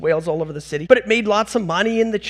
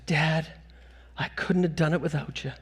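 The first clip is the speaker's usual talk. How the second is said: softer, low, hushed confiding voice; imitated whisper; 4 semitones lower, 8 dB quieter than usual. Son hugging his dad after the race, imitated whisper. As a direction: imitate a quiet word in someone's ear. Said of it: "he whispers in my ear".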